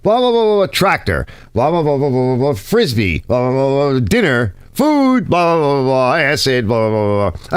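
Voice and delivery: sing-song blah blah, popping out the odd keyword; mock droning gibberish. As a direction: drone on like adults in a cartoon. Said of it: "It's what my dog hears".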